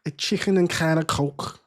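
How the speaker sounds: badly faked Scouse; Scouse accent attempt. Streamer practising a food order, amateur Scouse accent. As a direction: try out a thick Scouse accent. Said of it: "I need a Scouse".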